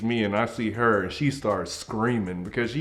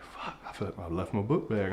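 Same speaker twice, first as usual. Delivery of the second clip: soft, sinking mutter; scared realization; 2 semitones lower, 9 dB quieter than usual. Acted. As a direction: mutter it as dread sets in. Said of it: "I'm so scared".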